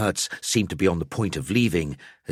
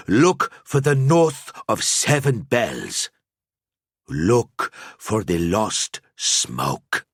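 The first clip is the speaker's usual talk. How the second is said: slow, higher, oracle-like; solemn old seer; 8 semitones higher, 5 dB louder, slower than usual. A narrator's reading. Al-Azir gives Gruber his final riddle, slow and solemn. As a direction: intone each clue slowly.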